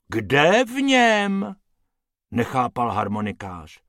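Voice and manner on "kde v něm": puzzled question. A narrator's reading. Harmonikář puzzled.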